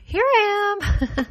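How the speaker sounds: put-on high, slow little kid reply; small child piping up from another room; child answering.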